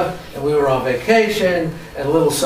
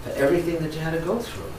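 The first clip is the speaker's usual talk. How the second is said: a touch of a caring agent saying sorry; soothing customer service apology; mild apologetic rep; 3 semitones higher than usual. Retold or imitated. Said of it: "Her immediate response is".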